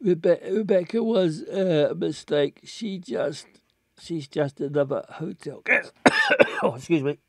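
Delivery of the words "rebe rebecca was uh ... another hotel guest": put-on drunk voice. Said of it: "reading him like a drunk man".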